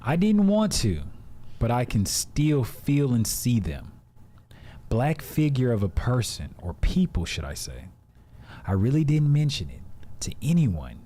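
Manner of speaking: measured, dramatic read-aloud with pauses; storytelling voice. Real, not acted. Reader setting the mood for a scary story, storytelling voice. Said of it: "my storytelling voice".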